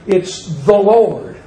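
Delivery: slow, with weight on "the"; deliberate, emphatic "the"; stress on THE. Retold or imitated. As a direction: lean into "the" before "Lord". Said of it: "emphasize the word "the".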